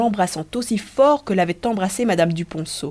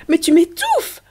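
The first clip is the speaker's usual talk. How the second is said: playful protest; 11 semitones higher, 6 dB louder, slower than usual. Acted. Being smothered with kisses.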